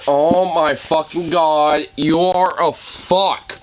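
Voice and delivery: slow, drawn-out exasperation; exasperated. Real, not acted. Owner fed up with disobedient dog, exasperated.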